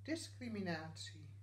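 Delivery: poem recital in short phrases with clear pauses; gedicht voordragen. Acted. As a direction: recite it line by line, pausing after each phrase. (gedicht voordragen met pauzes)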